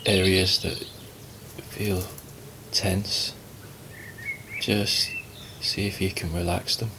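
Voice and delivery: calm, unhurried meditation guidance with long pauses; guided meditation. Acted. Teacher guiding listeners to relax and watch the breath, calm meditation voice. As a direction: ease them gently into stillness, leaving space between phrases.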